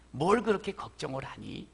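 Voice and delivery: "뭘" falling, soft and low; gentle repeated coaxing. Acted. God repeating comfort to Moses, soft falling tune. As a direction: repeat it softly, settling the worry. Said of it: "하는 거예요".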